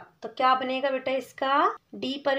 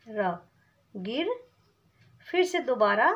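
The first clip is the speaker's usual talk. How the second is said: sounding out syllables; 2 semitones lower than usual. Shown as a demonstration. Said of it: "कैसे लिखेंगे?".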